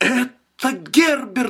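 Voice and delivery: sudden, very high outcry. Reading a woman's line as the house shakes with a crash: crying out. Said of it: "вскричала она".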